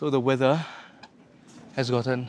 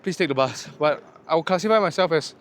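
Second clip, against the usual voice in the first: emphatic; 6 semitones higher, 3 dB louder than usual. Real, not acted. Tired hiker urging viewers.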